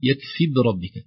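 يكف بربك with no "i" after the first b; dropped kasra. Shown as a demonstration. Teacher repeating the mistake, dropped kasra. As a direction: run b straight into r in بربك. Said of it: "لا يظهر كسرة الباء".

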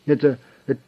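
high, loud, stuttering forced confession; stammering in fear. A narrator's reading. Terrified boss confessing at gunpoint, stammering. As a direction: squeeze the words out under the gun. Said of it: "выдавил из себя".

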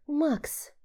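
high, stretched sighing call; drawn-out sigh. Acted. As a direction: drawl his name with a sigh. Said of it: "протянула она, вздыхая".

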